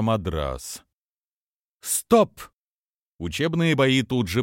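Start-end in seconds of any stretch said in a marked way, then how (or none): 1.8-2.4 sharp high shouted command. Acted. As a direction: bark the order across the hall. Hsishi halts the fighters.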